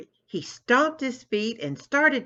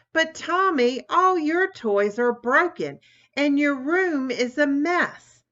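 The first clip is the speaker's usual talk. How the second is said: higher, smug bragging; a sister boasting to her brother, smug and teasing; 5 semitones higher than usual. Acted. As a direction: rub it in, mocking her brother. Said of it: "bragged Tammy".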